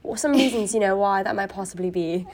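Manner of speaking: lightly put-on British commentator; polite British interviewer asking tactfully; British accent. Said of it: "your British accent is kinda popping off".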